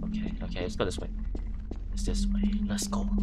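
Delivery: soft tense whisper. Real, not acted. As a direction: creep along in a whisper. Sneaking in dark.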